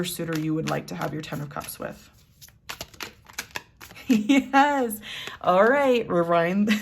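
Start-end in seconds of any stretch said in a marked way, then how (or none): 4.1-6.1 loud, high and bright; excited outburst. Real, not acted. Reader bursting out to her viewers, excited. Bursts back in after laughing. 6.1-6.7 loud, quick call to rewind; excited call. Real, not acted. Reader stopping herself mid-reading, loud and excited. Calls herself back to the cards.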